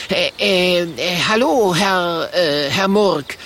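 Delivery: nervous stammer with hesitations; stuttering. A narrator's reading. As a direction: stumble over every word. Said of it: "stottert Kokosnuss".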